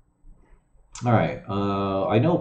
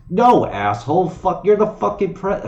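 higher, loud furious retort; angry outburst; 8 semitones higher, 4 dB louder than usual. Real, not acted. Streamer yells at Trump in frustration, loud and high. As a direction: blow up at him.

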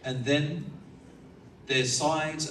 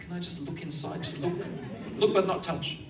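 coaxing plea; 3 semitones higher than usual. Acted. Servant coaxing to look inside.

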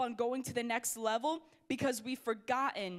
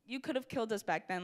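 complaining; 3 semitones higher than usual. Retold or imitated. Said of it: "The Israelites are literally complaining".

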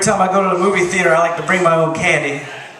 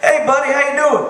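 Georgia dog; 6 semitones higher than usual. Acted. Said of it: "dog from Georgia".

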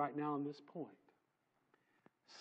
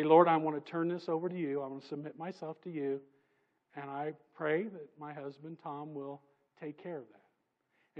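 quoted prayer; 2 semitones lower than usual. Retold or imitated. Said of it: "and say".

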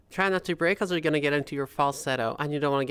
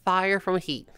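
slow and higher; feminized voice demo; 4 semitones higher, slower than usual. Shown as a demonstration. Voice coach modelling the magic sentence in a feminine voice. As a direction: lift the voice high and slow. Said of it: "one magic sentence".

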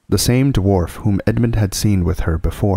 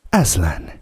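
grim repeat. Acted. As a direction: say Aslan darkly to yourself. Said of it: "cried the queen".

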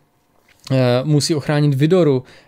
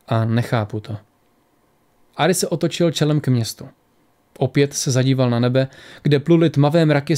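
measured audiobook reading with lightly voiced dialogue; story narration. A narrator's reading. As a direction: read the tale aloud, pausing between phrases. Reads the story aloud. (vyprávění příběhu)

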